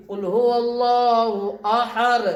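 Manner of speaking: अहर, the final d swapped for a bare r; ending on raa. Shown as a demonstration. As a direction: recite it stopping on an r sound in place of d. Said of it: "रा की आवाज आती". (आख़िर में दाल की जगह रा की आवाज़)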